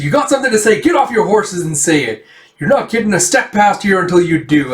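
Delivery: high-pitched mock confrontation; defiant challenge. Mob blocks the riders, defiant.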